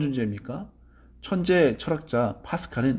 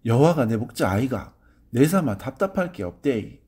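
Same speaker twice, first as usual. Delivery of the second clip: Gyeongsang dialect. Retold or imitated. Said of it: "경상도 사투리로 이렇게 말합니다".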